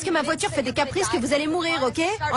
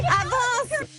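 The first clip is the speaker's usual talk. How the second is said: urgent shout; 8 semitones higher than usual. Acted. Fleeing to the car.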